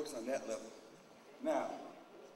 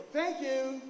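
mock sweet thanks; 11 semitones higher, 6 dB louder than usual.

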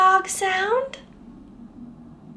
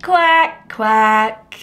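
mock duck quack; 7 semitones lower, 4 dB louder than usual. Shown as a demonstration.

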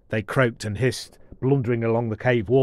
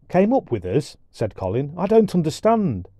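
put-on puzzled boy; 5 semitones higher than usual. Colin puzzled.

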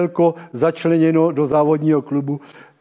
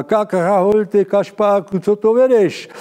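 higher, slower puppet character voice; squeaky puppet voice; 4 semitones higher, 3 dB louder than usual. Acted. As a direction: voice the village puppet, pitched up. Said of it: "když Krhola sedící klasicky na návsi říká".

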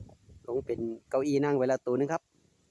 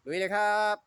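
higher, bright rallying shout; higher-pitched hype call; hyped cheer; 9 semitones higher than usual. Real, not acted. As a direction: pump yourself up, let's go. Host repeats the rallying cry.

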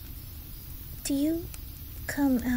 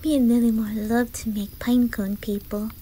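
put-on livelier, lifted childlike enthusiasm; eager excitement. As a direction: share play plans with growing eagerness. Eagerly planning games with new friend.

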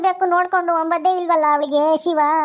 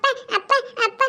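put-on small child calling; 6 semitones higher than usual. Small child cries for parents.

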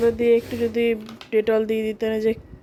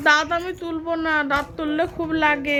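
toothache; 4 semitones higher than usual. Pretend. Patient fears tooth pulling.

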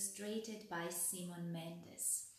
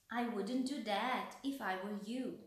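lightly voiced little mouse warning; a hint of a squeaky mouse; 2 semitones higher than usual. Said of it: "said squeaky voice".

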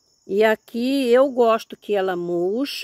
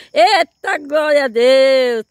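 loud, drawn-out cry of praise; slow loud happy outburst; excited exclamation; 6 semitones higher, 9 dB louder, slower than usual. Real, not acted. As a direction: shout it out in joy to God.

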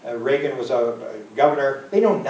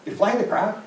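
incredulous; 8 semitones higher, 4 dB louder than usual. Retold or imitated. Disbelief at elderly pilot.

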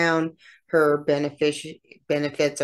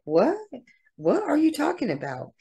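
shocked disbelief; 12 semitones higher than usual. Retold or imitated. Family reacts to Chad's news of new love, stunned and high-pitched. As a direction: pitch leaps much higher on the second what, incredulous. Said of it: "And the family's like".

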